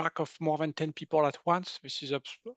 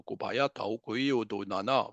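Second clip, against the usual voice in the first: light language demo; 4 semitones lower than usual. Shown as a demonstration. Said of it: "This is mine sounds like this".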